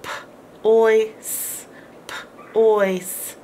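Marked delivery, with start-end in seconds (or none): 2.1-3.4 "P, ois" whispered in parts; whispered sounds. Shown as a demonstration. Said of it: "this doesn't make any sound".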